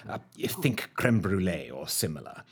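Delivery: a quick whisper to the audience; confiding whispered aside. Acted. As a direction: drop to a whisper for the helpful hint.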